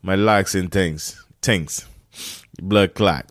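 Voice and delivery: lightly hammed-up, bad Jamaican accent; terrible Jamaican accent. Podcaster joking to listeners about his new locks, terrible Jamaican accent. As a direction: put on a badly faked Jamaican accent. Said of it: "with my terrible Jamaican accent".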